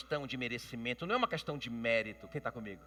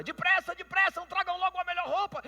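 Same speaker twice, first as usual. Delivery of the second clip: joyful shouting father; 7 dB louder than usual. Retold or imitated. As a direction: shout it much higher and louder, urgent. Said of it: "começou a gritar do nada".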